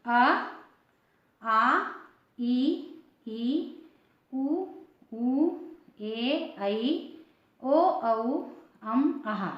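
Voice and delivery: each vowel said slowly and clearly, one by one; reciting vowels. Shown as a demonstration. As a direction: spell out अ, आ, ई like a teacher. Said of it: "ये स्वर सीखेंगे".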